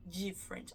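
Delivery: different beginning dji, dji-ferent; the wrong different, d softened to dji; Brazilian dji sound. Shown as a demonstration. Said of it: "e não the different".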